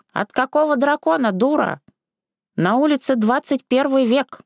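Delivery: irritated granny retort; snapping. Acted. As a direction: bite back at the silly girl. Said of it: "огрызнулась бабка".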